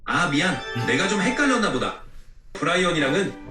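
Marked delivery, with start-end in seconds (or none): none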